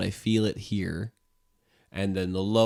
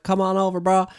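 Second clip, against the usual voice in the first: casual bro voice; 13 semitones higher, 7 dB louder than usual. Pretend. Voicing love inviting in.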